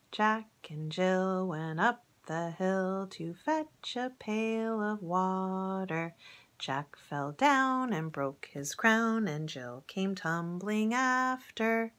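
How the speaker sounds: slow, sing-song rhyme recital; nursery rhyme. Acted. Reciting Jack and Jill to the children, slow sing-song. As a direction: chant it slowly for little listeners. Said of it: "reminds me of a nursery rhyme".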